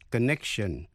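"connection" with a light, unreleased k before the sh; touch a k in "connection", barely released; soft k in connection. Shown as a demonstration. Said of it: "phát âm là k". ("connection" với âm k nhẹ, không bật rõ)

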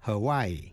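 "Hawaii" in three parts, ha-WAI-ee; three syllables. Shown as a demonstration. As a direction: sound the final ee separately in "Hawaii". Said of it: "phát âm làm ba syllables". ("Hawaii" đọc thành ba vần ha-WAI-i)

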